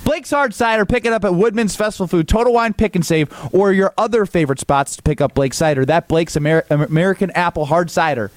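a lightly pitched live sponsor read. Acted. Host reading a cider ad on air, mild ad-read voice.

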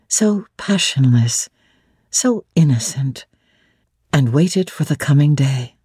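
ordinary talk, nothing marked

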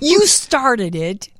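yawning while talking; words stretched through a yawn. Real, not acted. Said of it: "you're yawning".

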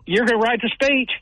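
high-pitched disbelieving question; retold incredulity. Speaker asked to give coach's speech at pep rally, incredulous. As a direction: question it back, pitched well up.

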